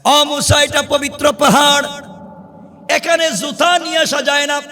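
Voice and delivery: high, ringing sermon delivery; preacher in a high, urgent pitch; impassioned preaching. Acted. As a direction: raise the voice and preach each phrase out. Preaches at full force.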